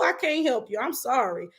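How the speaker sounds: ordinary talk, nothing marked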